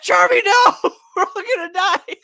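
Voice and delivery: very high, loud wailing shout; hammed-up panic. Friends begging Charmy not to go, hammed-up panic. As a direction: scream it in comic terror.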